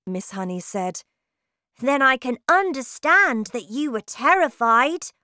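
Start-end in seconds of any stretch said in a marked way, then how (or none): 1.8-5.1 put-on higher, louder girlish exclamation; cried out. A narrator's reading. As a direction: burst out with sudden understanding. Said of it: "Matilda cried".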